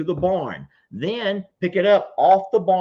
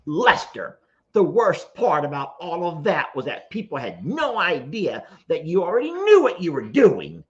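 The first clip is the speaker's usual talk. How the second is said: all-caps voice. Pretend. Streamer acting out Lester's all-caps comment, mock emphatic. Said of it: "so I'm gonna talk in all caps".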